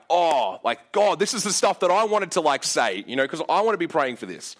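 mock eager thrill, a little fast; retold excitement. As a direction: get excited at the big stuff. Inner excited reaction to team.

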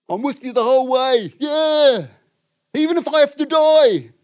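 high, loud, gung-ho shout; hammed-up bold declaration; boastful Peter. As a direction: cry out a rousing pledge of loyalty.

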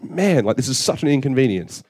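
mock exasperated groan; annoyed. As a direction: grumble about the hassle. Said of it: "I was annoyed".

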